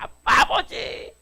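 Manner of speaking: slow whispered cry to the Father; tender whisper. Acted. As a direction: breathe the words out slowly like a child. Believer calling to God.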